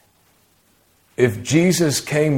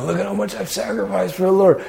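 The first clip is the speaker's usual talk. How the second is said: mock boasting; 7 semitones higher, 3 dB quieter, faster than usual. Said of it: "So he can go".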